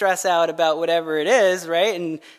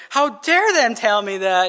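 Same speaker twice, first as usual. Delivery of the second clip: mock indignant outburst; a touch of offended outrage, imitated; mock harsh voice; 3 dB louder than usual. Offended reader reacting to a misread text, mock harsh. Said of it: "in a harsh voice".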